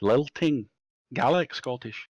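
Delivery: slow Scottish accent with a Gaelic lilt. Shown as a demonstration. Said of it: "like, more lilting".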